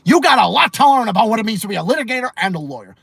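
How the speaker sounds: lightly imitated judge's rebuke; quick, forceful scolding from the bench; stern judge. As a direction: tell off a lawyer like a TV judge. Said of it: "That was Judge Milian saying".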